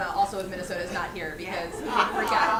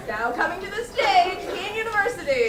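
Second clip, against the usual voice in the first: big booming announcer voice, higher and louder; fighting game announcer; 7 semitones higher, 5 dB louder than usual. Shown as a demonstration. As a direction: call it out like a ring announcer. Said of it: "I need to develop my announcer voice better".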